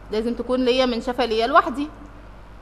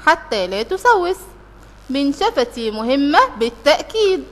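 slow, deliberate classroom reading; careful teacher's read-aloud; slower than usual. Acted. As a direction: read the passage out slowly, word by word.

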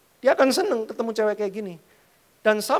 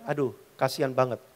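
ordinary talk, nothing marked

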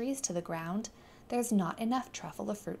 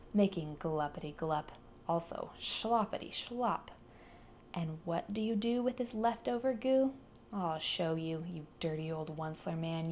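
snapping Lorax. Acted. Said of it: "snapped the Lorax, his dander was up".

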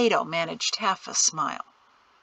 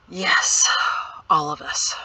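whisper; 3 semitones lower than usual. A narrator's reading. Father after exhaling, whispering.

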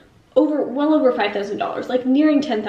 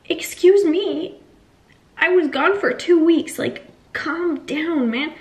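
indignant; 5 semitones higher, slower than usual. Retold or imitated. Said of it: "And I was like".

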